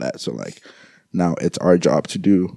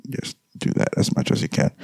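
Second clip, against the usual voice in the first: breath-only final urging; quietly pleading with the audience; soft real whisper; whispered plea; 4 dB quieter than usual. Real, not acted. Grieving plea to listeners.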